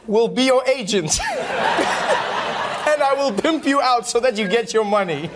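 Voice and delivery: giggling while quoting herself; telling it through laughter; half-laughing retold pitch; laughing through a quote. Her pitch to Bertha, retold.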